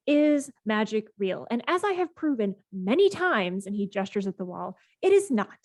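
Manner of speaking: indignant self-important explanation, pitch jumping on key words; sigh, then lecture them in a huff; emphatic, swooping debunker's rant; huffy. Acted. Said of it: "He stows his phone huffily".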